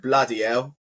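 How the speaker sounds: bloody hell in a British accent. Shown as a demonstration. Briton showing how it's said at home, British accent. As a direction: lean into the British pronunciation. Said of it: "in the most British accent".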